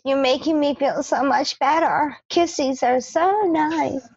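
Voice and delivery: gushing mock girlfriend, last words drawn out; mock lovey-dovey. Teasing co-host imitates smitten housemate talking to Clay, mock lovey-dovey. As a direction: imitate her cooing over her boyfriend. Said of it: "She was like".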